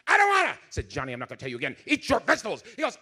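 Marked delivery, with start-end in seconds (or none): 0.1-0.5 put-on higher, louder bratty child refusing; whiny kid. 0.9-2.6 a mild dad trying to sound firm; calm dad voice. Retold or imitated. Father voiced telling son.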